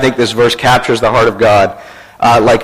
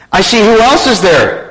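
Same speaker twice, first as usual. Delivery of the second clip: lightly acted higher-pitched caller; telemarketer; 7 semitones higher than usual. Telemarketer questioning a small boy, lightly acted higher voice. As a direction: coax a small child with a question. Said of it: "A telemarketer".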